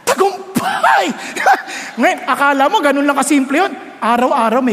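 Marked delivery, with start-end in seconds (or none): 0.1-1.0 triumphant cry. Retold or imitated. Triumphant punchline after resisting temptation. 1.1-2.0 breathy burst of laughter. Real, not acted. Laugh after punchline.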